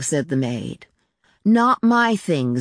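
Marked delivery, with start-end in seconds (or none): 1.4-2.6 high, slow, mildly commanding; lightly voiced child laying down an order. A narrator's reading. Child ordering the maid off her belongings, mildly commanding. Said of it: "Zita ordered and departed".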